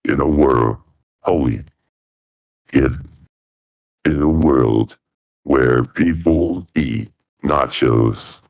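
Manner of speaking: deep, dramatic trailer narrator; movie trailer voice. Shown as a demonstration. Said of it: "That's a trailer voice".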